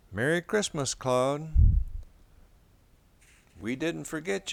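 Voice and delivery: a bright holiday greeting to the pet dog; lightly voiced family member, cheerful; family member voicing.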